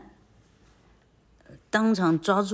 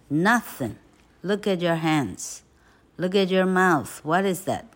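scolding; 4 semitones higher, 3 dB louder than usual. Acted. Aunt scolding boy.

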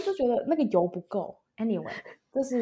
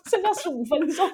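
panting masseur; 7 semitones higher, 4 dB louder than usual. Retold or imitated. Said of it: "我当时感觉到他很喘".

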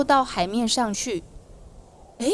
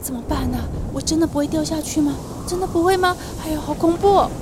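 higher and faster as the fear grows; getting scared; 4 semitones higher, faster than usual. Acted. Peter on the waves worries he will sink, growing scared. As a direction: fret aloud as the waves rise. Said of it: "他心里就害怕起来哦".

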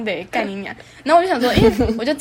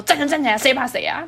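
half-playful retold defiance, a bit raised; defiant comeback; 3 semitones higher than usual. Girl standing up to her shouting teacher, mock fierce. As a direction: throw the challenge back at the teacher with some heat. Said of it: "然后我超凶的".

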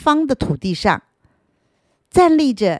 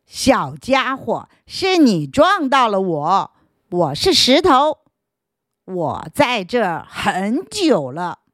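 sturdy stone voice; 2 semitones higher than usual. Acted. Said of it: "是一个粗壮的声音".

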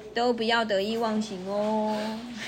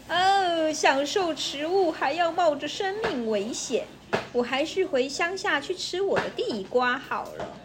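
mild trembling fear; 5 semitones higher than usual. Acted. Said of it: "乡下老鼠发抖地说".

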